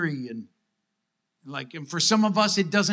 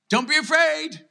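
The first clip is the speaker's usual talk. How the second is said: mock Jesus command; 9 semitones higher than usual. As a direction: lift it high in mock disbelief. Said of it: "And then you're saying".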